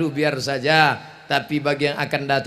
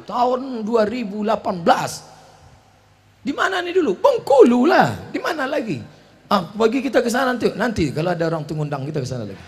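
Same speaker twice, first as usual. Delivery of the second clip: put-on higher child-like questions; curious grandchild; 4 semitones higher, faster than usual. Grandchild quizzing grandpa about the old photo, higher mock child voice. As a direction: chirp like a nosy grandkid.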